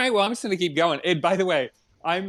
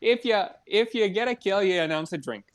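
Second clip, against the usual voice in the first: put-on Canadian, starting higher; Canadian accent; 4 semitones higher than usual. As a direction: read out rules in a mock Canadian accent. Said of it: "I'm trying to go Canadian".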